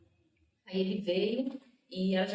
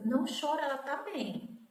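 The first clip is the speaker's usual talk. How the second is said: higher-pitched retold soothing; insistent reassurance; 5 semitones higher than usual. Sister telling crying family she is fine, high reassuring retelling. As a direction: urge them not to cry.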